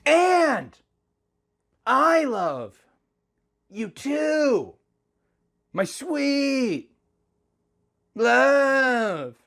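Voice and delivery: high, strained put-on male lover's voice; Link's voice. A narrator's reading. Narrator voicing Link tenderly to his wife. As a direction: pitch it way up, swooning and earnest.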